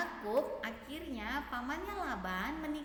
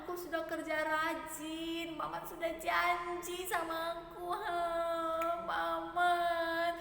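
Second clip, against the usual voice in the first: angry Jacob; 8 semitones higher than usual. Acted. Jacob reminds Laban of seven years worked, angry. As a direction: demand an answer from the uncle. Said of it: "Dia marah kepada Laban".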